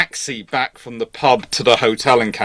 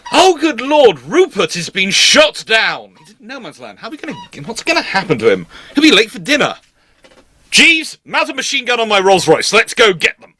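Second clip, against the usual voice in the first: a lightly voiced posh British officer, pitched up, mock alarm; 9 semitones higher than usual. British officer whose pilot friend was shot down, lightly mocked posh alarm. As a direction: ham up an upper-class twit sending Jeeves to war.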